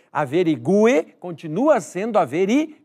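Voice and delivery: "averigue" with the u sounded and stressed; correct pronunciation. Shown as a demonstration. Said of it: "isso não muda a oralização".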